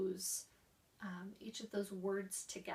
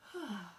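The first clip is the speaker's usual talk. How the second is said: relaxing sigh; 4 dB quieter than usual. Shown as a demonstration. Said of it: "the sigh is a very relaxing".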